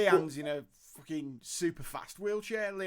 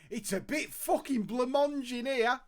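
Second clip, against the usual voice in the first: blurting it out loud, laughing; loud mock outburst; 6 semitones higher, 5 dB louder than usual. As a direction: shout it across the room. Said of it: "at the top of his voice went".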